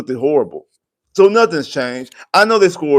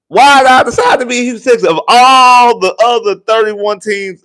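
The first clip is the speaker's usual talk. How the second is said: exasperated rant; 3 semitones higher than usual. Retold or imitated. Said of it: "I'll be like".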